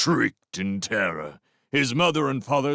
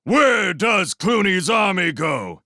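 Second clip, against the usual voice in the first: much higher, loud war cry question; rallying shout; 11 semitones higher, 7 dB louder than usual. Acted. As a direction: whip the horde into frenzy. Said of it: "As Clooney exhorted them".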